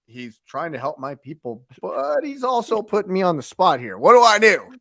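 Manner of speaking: mock deer in headlights. Voicing the beaten fighter put on the spot, mock panic building. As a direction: start subdued, build to a loud, helpless plea. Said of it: "deer in the headlights".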